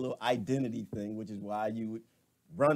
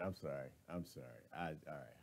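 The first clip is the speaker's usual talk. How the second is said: composing herself; 10 semitones lower, 17 dB quieter, faster than usual. Real, not acted. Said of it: "I'm trying not to laugh".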